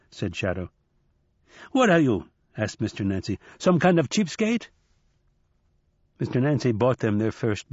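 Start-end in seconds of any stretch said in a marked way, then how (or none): 1.7-2.3 mock-indignant old man; teasing. Nancy teasing Shadow. 3.6-4.7 mock-indignant old man; teasing. Nancy teasing Shadow.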